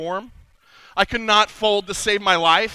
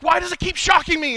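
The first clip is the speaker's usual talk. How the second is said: whiny sing-song; 8 semitones higher than usual. Acted. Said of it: "you're like".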